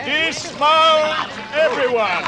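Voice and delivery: loud command to dismount; calling out. Acted. Thorin orders the whole company off their ponies.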